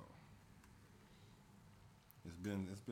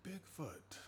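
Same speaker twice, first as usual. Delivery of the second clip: monster truck ad; 10 semitones higher, 5 dB quieter than usual. Pretend. Monster truck rally parody continues.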